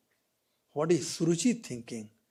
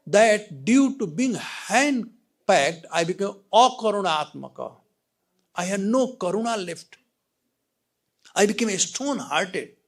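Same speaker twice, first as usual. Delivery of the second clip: lamenting king; 6 semitones higher, 8 dB louder than usual. Acted. Preacher voicing the king's sorrow to Narada, loud lament. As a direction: pour out the king's regret.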